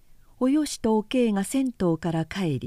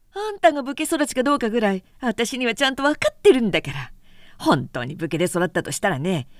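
biting; 3 semitones higher, faster than usual. Acted. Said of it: "辛辣に言った".

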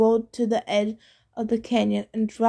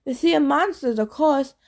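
gravelly ghost captain; 3 semitones higher than usual. Acted. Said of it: "The captain's gravelly voice".

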